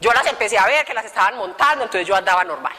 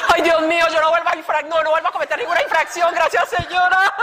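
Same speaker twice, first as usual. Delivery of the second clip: gushing relief; 5 semitones higher than usual. Retold or imitated. Acting out relieved vow to God.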